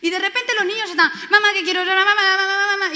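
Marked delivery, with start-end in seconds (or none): 1.3-3.0 put-on high, loud sing-song child whining; nagging kids. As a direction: pester mum over and over. Kids nagging their busy mother. (niños insistiendo a mamá, en tono cantarín)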